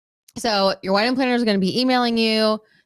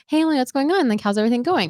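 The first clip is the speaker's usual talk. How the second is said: chirpy planner voice; 3 semitones higher, faster than usual. Retold or imitated.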